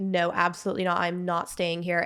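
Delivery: mock-angry tantrum, acted out. Retelling being taken to a foster home instead of granddaddy's, reenacting pitching a fit. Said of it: "I am pitching a fit".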